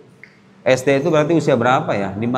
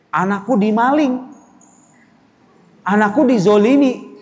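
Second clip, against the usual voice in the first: higher, indignant mock lament; outraged mother; 5 semitones higher than usual. Mother hearing her child was robbed, high indignant lament. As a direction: play a mother crying injustice.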